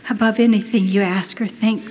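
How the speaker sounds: gently voiced divine reassurance, unhurried; sweet, tender. The Lord answering his child's amazement, sweetly. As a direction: speak lovingly, as to a child. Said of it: "so sweetly the Lord said to me".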